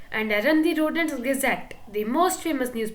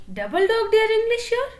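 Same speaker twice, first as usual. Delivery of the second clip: teasing dare; 8 semitones higher, 4 dB louder than usual. Acted. Playful dare to the reader.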